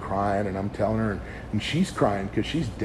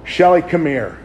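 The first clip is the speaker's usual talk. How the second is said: calling out; 6 semitones higher, 10 dB louder than usual. Retold or imitated. Calling wife after rebuffing her.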